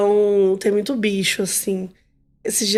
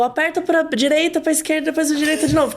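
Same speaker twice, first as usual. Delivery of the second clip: higher-pitched, mock-panicked game orders; imitating mother's shouting; 6 semitones higher than usual. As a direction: call out directions like a frantic mother. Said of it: "minha mãe começou a gritar". (imitando a mãe gritando)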